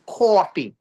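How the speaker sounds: "coffee" in Brooklyn style, as "CAW-fee"; Brooklyn accent. Shown as a demonstration. Comic shows the crowd Brooklyn speech, Brooklyn accent. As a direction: stretch the first syllable of "coffee" into a Brooklyn "caw". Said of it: "in Brooklyn, we say coffee".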